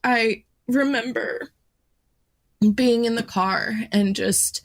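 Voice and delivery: holding back tears. Real, not acted. Retelling mom's death to viewers, voice near tears. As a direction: fight to keep the voice steady while the tears rise. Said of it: "the layer between tears and not tears".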